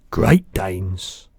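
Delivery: big, slow, booming giant voice; the giant's voice. Acted. Giant correcting the girl, big booming voice.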